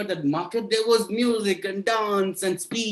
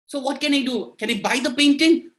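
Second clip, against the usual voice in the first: eager king; 6 semitones higher than usual. Acted. King asks minister.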